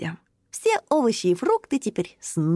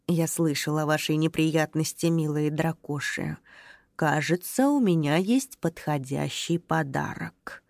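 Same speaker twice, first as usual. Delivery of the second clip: put-on lower, softer old grandpa voice; old tree voice; 4 semitones lower, 4 dB quieter than usual. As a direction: speak as a kind old tree. Old tree grandpa speaks gently.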